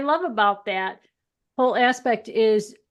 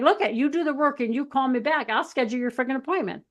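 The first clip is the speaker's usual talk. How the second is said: firm but loving; 4 semitones higher than usual. Retold or imitated. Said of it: "I'd be like".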